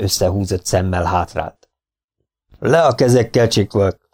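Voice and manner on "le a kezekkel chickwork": a touch of a booming order; lightly raised voice, commanding; mild thundering command. Acted. Sheriff orders the Indian to raise his hands, mildly booming. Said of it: "dörögte Gibson".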